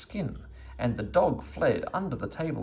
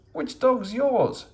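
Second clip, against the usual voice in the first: high, slow shouted question; shouting back; 7 dB louder, slower than usual. A narrator's reading. Meddle shouting back at the angry woman, loud and slow. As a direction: yell it back across the road. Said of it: "shouted back Meddle".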